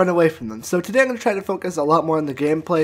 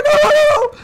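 laughing disbelief; 7 dB louder than usual. Real, not acted. Shocked by a long hit.

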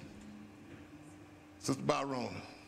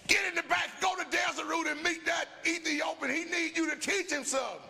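commanding voice of God; 11 semitones higher than usual. Acted. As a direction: call Philip like a thundering Lord.

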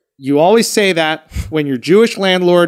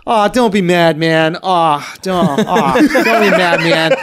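aw shucks voice; slower than usual. Retold or imitated. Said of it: "in his aw shucks voice".

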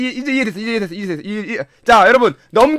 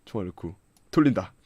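much lower and softer, tense; low tense murmur; 11 dB quieter than usual. Real, not acted. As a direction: say it under your breath before the shot. (긴장해서 낮게 중얼거림)

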